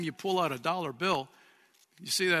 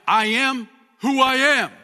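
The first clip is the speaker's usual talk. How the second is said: much louder and higher; majestic declaration; 7 semitones higher, 9 dB louder than usual. Acted. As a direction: proclaim the divine name with awe. Quoting God's name, Exodus.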